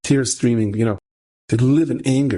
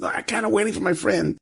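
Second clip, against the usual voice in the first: high, softer mock protest; anxious refusal; 10 semitones higher, 3 dB quieter than usual. Student refusing the coach for his friend, anxious refusal. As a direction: lightly imitate a worried man holding his ground.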